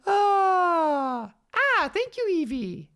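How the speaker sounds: high, loud cry of thanks; excited shouted thanks. Real, not acted. Streamer thanking a donor, high excited shout.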